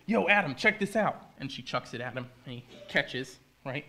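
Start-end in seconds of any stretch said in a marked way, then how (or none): 0.1-1.3 higher, louder casual holler; Eve calling out. Acted. Eve calling Adam to see the apple, high excited call. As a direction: call over to a pal, pitched up. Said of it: "And then she goes".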